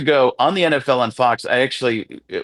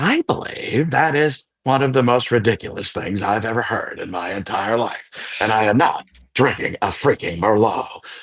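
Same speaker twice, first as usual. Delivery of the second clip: airy, brought-down put-on voice; 3 semitones lower than usual. Show how related voices change by bringing it down and adding air, in a Paul Giamatti impression. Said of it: "bring it down even more and add some more air".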